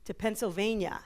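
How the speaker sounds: lightly imitated Brooklyn dad; a touch of quintessential Brooklyn; Brooklyn accent. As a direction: imitate a father's Brooklyn accent, pitched a little up. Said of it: "said to me in his quintessential Brooklyn accent".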